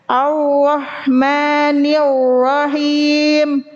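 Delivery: slow chanted AR-RAHMANIR-RAHIM with unrolled r; missing ro trill. Shown as a demonstration. Teacher showing the fault, English-like untrilled r. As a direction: glide over each r in AR-RAHMANIR-RAHIM, no vibration. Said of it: "Menghilangkan atau melebihkan getaran".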